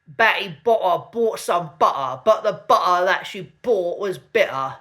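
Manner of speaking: southern English accent, T's in "butter" and "bitter" swallowed as glottal stops. Shown as a demonstration. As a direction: drop the T's in "Betty Butter bought some butter", southern English. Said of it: "in southern England ... glottal stop".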